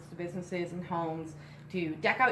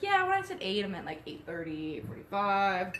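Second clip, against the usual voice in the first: sheepish excuse. Retold or imitated. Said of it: "I was like".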